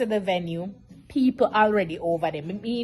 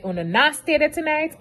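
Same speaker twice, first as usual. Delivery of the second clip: higher, insistent demand; brother's firm order; 5 semitones higher than usual. Retold or imitated. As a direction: lay down the law for the family. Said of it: "My brother is say".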